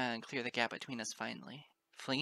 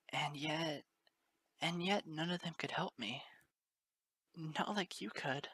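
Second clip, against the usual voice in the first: whisper. Acted. Moon Dancer's pained admission.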